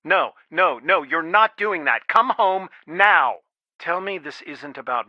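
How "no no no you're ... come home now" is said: firm refusal rising to a loud, slow command; stern parent putting a foot down; stern parental order. Acted. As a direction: forbid it, then order them home. Father forbids daughter, orders her home.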